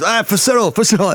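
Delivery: high-pitched mock battle cry; reenacted shout, pitch flung right up; rallying cry. Bandmate's acted rallying cry.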